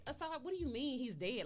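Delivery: put-on distraught mother challenging the boy; upset disbelief. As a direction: push back, refusing to believe it. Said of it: "I'm getting upset with him".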